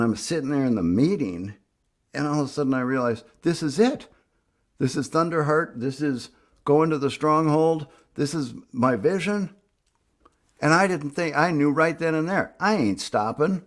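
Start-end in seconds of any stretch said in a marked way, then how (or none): 3.4-13.6 higher, building conviction; rising excitement. Retold or imitated. Realizing in the meeting his vision is real, excited. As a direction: let the revelation lift the voice.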